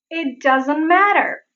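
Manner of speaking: "matter" with a quick tapped T; flap T. Shown as a demonstration. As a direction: flick the middle of "matter". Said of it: "You can hear the same here".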